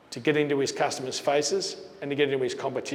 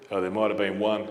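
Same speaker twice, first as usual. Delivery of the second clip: sheepish admission; 6 semitones lower, 3 dB quieter than usual. Retold or imitated. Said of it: "And he says".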